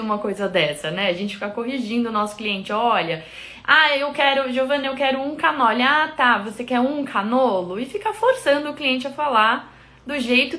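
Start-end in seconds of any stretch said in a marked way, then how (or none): 2.7-5.8 lightly voiced customer, higher pitched; customer ordering. Customer asking Giovana for a dessert, lightly imitated customer voice. 5.8-7.8 higher-pitched mock correction; mock correcting. Shop owner correcting a customer's order, lightly mocked correction.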